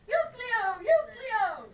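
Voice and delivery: loud call to someone indoors. Acted. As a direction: shout the name to bring him out. Calling the old man outside.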